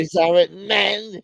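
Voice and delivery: creepy slow voice. Pretend. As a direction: drag it out, eerie. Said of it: "They're talking about you".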